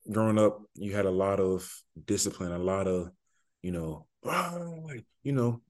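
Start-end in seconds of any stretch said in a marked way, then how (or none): 4.2-4.6 mock yell. Athlete recalls military upbringing, mock yell. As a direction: imitate yelling without raising the volume. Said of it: "just yelling".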